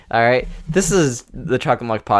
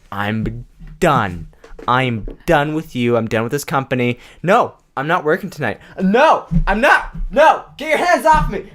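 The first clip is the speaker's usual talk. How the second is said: building to a shout; 3 semitones higher than usual. Retold or imitated. Acted blowup at the boss, rising.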